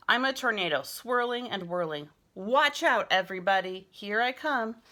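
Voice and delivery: loud, high, thrilled tornado play; excited play. Pretend. Boy pretending to be a tornado while sweeping, loud excited. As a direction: whirl in shouting with glee.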